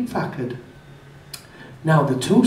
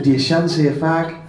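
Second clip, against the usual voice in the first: laughing. Real, not acted.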